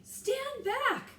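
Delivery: loud, high barked order; yelled order. A narrator's reading. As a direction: yell her back. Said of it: "the captain yelled at her".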